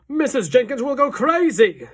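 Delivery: loud, high frantic yell; panicked yell. A narrator's reading. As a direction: yell in panic about the wife. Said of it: "yelled Mister Jenkins".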